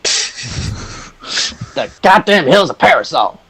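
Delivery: high, slow, confused character voice; baffled Hercule. Acted. Hercule asks the group about the parasol, slow and baffled in a high voice. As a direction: drag it out like the word makes no sense.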